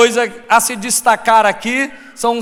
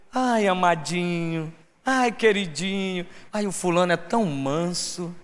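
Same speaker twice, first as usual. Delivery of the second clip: mock meekness; 4 semitones lower, 9 dB quieter than usual. Preacher imitating a supposedly meek sweet-talker, gushingly gentle. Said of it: "a pessoa fala com você".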